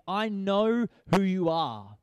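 slow, loud mock demon cry; a hint of a menacing demon; demon proclaiming. Demon calling out to Jesus, slow and loud. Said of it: "the demon proclaimed".

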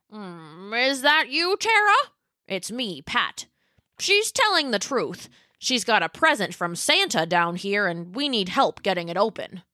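Pat the dinosaur. Acted. Pat reassures Tara.

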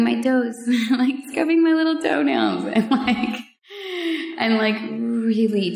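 laughing through the words; laughing with delight; giggling. Real, not acted. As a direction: giggle as you tell it. Giggling over foot scrub.

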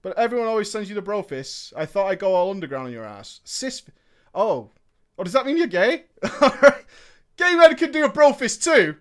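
ordinary delivery

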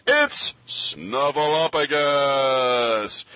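booming ring announcer intro; fighting game announcer. Shown as a demonstration. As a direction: stretch the words like a fight announcer. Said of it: "my announcer voice".

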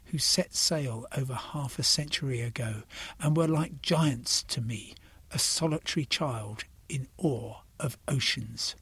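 reflective recital, softening toward the end; poem reading. Acted. Reads Brian Patten poem.

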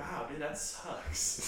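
slow, flat sarcastic pity; deadpan sarcasm. Shown as a demonstration. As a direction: drag it out, mock sympathy. Sarcastic opposite reaction game.

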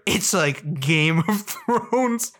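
slow mock pitch breaking into a laugh; mock announcer voice, laughing. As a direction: sell it slowly while cracking up.

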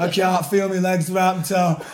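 slow, drawn-out mock whine; imitating a tearful mate, words dragged out; mock crying. Mate on the dance floor to his friend, mock crying. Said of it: "crying his eyes out".

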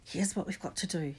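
hushed and urgent; urgent whisper. A narrator's reading. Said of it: "he whispered urgently".

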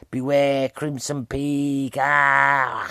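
slow, drawn-out mock ghost warning that fades into a moan; hammed-up spectre intoning its warning; ghostly warning. Ghost warning the cowering woman, slow hammed-up moan. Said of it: "she goes".

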